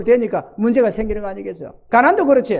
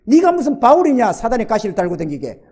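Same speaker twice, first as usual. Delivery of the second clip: the Lord's retort; 3 dB louder than usual. Retold or imitated. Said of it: "주님이 이러더래요".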